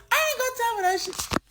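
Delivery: very high mock Black American accent; Black American accent imitation. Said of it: "they have this accent".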